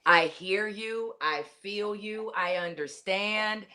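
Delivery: slow, gentle reassurance; calm validating phrases. Shown as a demonstration. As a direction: say it like you truly get them. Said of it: "If you don't understand".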